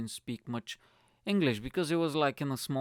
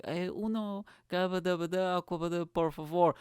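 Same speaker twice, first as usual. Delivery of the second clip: higher-pitched, garbled mock Spanish; nervous ordering; 5 semitones higher than usual. Nervous customer ordering water from waitress, mock-flustered gibberish. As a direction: stumble through a half-remembered phrase. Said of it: "I was so nervous".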